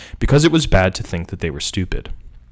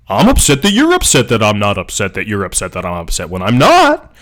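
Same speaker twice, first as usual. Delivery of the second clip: exasperated protest. Acted. Jack protesting to Jill that he isn't upset, exasperated.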